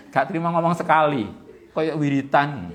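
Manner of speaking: excited outburst. Real, not acted. Amused complaint about kids' chanting.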